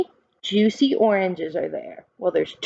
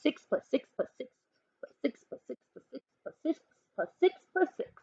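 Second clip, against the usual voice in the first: rapid counting; 6 semitones higher, 9 dB quieter, much faster than usual. Real, not acted. Rattles off long sum.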